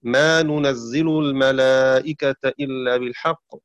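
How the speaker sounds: ننزل with u on the nun, i on the zay; measured recitation, "nunazzilu" for ننزل; damma on nun. Shown as a demonstration. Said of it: "بالنون المضمومة في مكان التاء".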